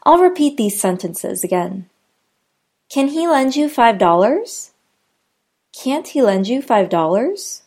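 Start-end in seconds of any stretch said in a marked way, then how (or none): 2.9-4.7 "Can" quick and weak, question rise; unstressed can. Shown as a demonstration. Teacher demoing unstressed can in a question. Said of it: "whereas can isn't". 5.7-7.6 "Can't" stressed, question rise. Shown as a demonstration. Teacher demoing stressed can't in a question. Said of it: "Notice how can't is stressed".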